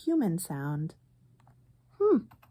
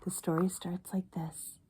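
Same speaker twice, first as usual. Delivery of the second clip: hushed aside; soft unvoiced whisper; 5 dB quieter than usual. Real, not acted. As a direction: whisper it to the listener. Quiet aside before reading.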